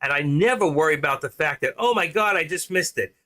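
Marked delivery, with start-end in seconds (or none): 1.8-3.1 higher, brighter mock panic over a missed trade; imitating a trader freaking out; mock excited panic. Trader mocking his own panicky excitement, higher pitched. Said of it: "I do talk like this from time to time when I get excited".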